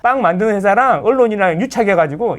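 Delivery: lightly hammed-up YouTube demagogue; mock a shallow rabble-rouser stirring people up; a hint of an outraged online agitator; mock agitator rant. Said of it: "막 이런, 약간 이런 느낌이라는 거지".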